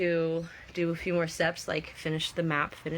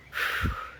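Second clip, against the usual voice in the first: sigh. Real, not acted. Catching breath while chatting.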